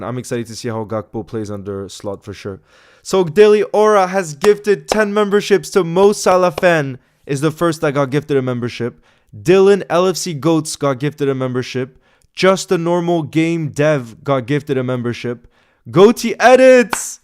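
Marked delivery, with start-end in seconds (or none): 3.0-7.0 excited. Real, not acted. Hyped announcing of gifts. 15.9-17.2 the name called out slowly, higher and louder; stretched, hyped name call; excited shout-out. Real, not acted.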